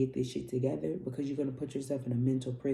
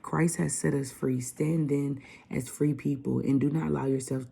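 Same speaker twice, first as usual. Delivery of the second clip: loud, emphatic Bible reading; scripture reading; 4 dB louder than usual. Acted. Vlogger reading Galatians to viewers, preaching loudly. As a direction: read it like a preacher at the pulpit. Reads Galatians five aloud.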